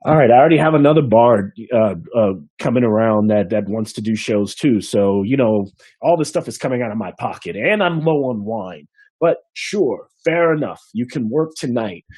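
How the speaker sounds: quick, put-upon innkeeper who gives in; grudging innkeeper. Acted. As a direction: grumble then give in.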